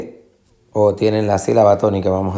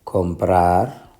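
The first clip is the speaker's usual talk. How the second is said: comprar stressed on -prar, rising at the end; stress on last syllable; 3 semitones lower than usual. Shown as a demonstration. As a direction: let the final syllable of comprar carry the force. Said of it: "Lleva la fuerza de pronunciación en la última sílaba". (comprar acentuado en la última sílaba)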